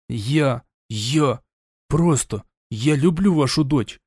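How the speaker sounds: ordinary delivery, nothing marked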